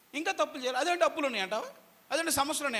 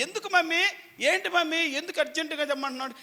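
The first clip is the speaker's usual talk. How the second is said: put-on higher, quick confused child's questions; puzzled boy; 6 semitones higher than usual. Jacob asks his mother why she wants it urgently. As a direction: ask like a bewildered young son.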